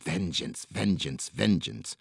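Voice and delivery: soft menacing threat; whispered threat. A narrator's reading. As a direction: hush it like a fading threat. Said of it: "whispered threats".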